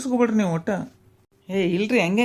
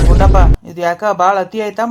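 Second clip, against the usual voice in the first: calling out loud; 9 dB louder than usual. Acted. Scolding Gundappa across the yard.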